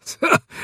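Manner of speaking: short breathy scornful laugh; mocking snort of a laugh; spiteful laugh. A narrator's reading. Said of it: "Gehrig lachte hämisch auf". (hämisches Auflachen)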